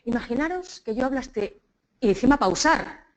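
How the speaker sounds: slow, paused delivery; slow speech. Shown as a demonstration. Teacher imitating advice to speak slowly, slow and halting. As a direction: drag it out with pauses. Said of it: "tienes que hablar despacio".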